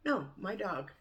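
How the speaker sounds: ordinary delivery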